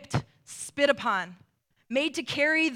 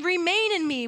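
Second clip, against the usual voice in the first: pleading; 5 semitones higher than usual. Acted. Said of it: "Jesus is pleading with them".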